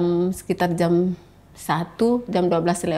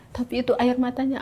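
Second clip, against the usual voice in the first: put-on higher, questioning child; retold child's question, pitched up; imitating her son; 6 semitones higher than usual. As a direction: lightly voice a boy pressing his mother. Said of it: "anak saya yang laki-laki".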